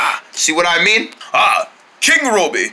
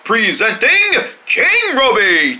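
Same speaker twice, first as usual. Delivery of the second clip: herald announcement; slower than usual. Acted.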